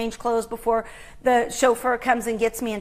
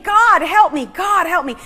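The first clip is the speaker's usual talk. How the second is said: louder, pleading mock scream; retold scream; 4 semitones higher, 5 dB louder than usual. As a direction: call out for help, a touch of panic.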